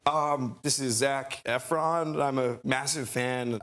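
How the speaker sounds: slow, halting, starstruck introduction; at a loss for words. Retold or imitated. Fan on the phone to his hero, halting and tongue-tied. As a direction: fumble it out slowly. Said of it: "at a loss for words and rambling on".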